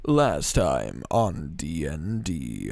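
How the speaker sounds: very low, loud, drawn-out show intro; deep announcer voice. Acted. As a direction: boom it out slowly, far down in pitch. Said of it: "I don't have my super deep voice".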